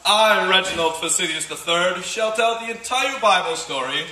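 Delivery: grand self-important proclamation; pompous actor. Acted. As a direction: boom it out like a vain stage actor. Hammy actor proclaiming himself.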